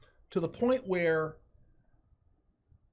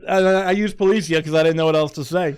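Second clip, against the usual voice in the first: laughing; 5 semitones higher, 9 dB louder than usual. Real, not acted. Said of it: "Just kinda sound Italian like that".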